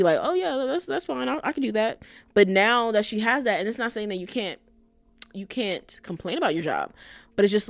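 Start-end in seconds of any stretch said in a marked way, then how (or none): 0.2-2.0 higher, airily dismissive imitation; mock breezy confidence. Woman brushing off warnings about Tokyo, mock breezy. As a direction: wave it off as easy peasy. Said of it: "acting like it was easy peasy lemon squeezy".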